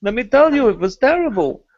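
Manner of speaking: lightly voiced New York Jewish accent; a hint of an old New York Jewish kvetch. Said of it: "typical New York Jew accent".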